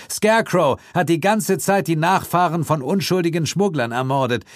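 a hint of a calm, mocking hero voice; lightly mocking detective; lightly voiced Suko. A narrator's reading. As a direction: tease the killer with amused calm.

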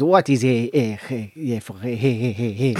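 stammering mock Spanish accent; halting imitation of a Spanish speaker; put-on Spanish accent. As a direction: hunt for the word in a faked Spanish accent. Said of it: "he pretended he was Spanish".

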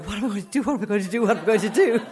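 mildly frantic repeated question; retold panic. Sitting there in the cubicle, mildly frantic. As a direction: chant the question in a mock fluster.

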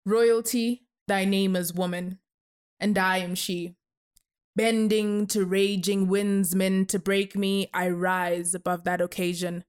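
measured spoken-word delivery; poem recitation. Acted. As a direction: recite it like a performance poet.

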